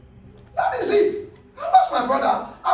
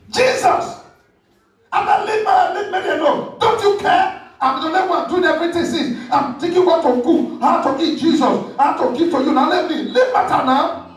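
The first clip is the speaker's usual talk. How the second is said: high, fed-up complaint to Jesus; complaining Martha; 5 semitones higher than usual. Retold or imitated. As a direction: whine like an overworked, resentful sister. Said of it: "Look at how they address Jesus".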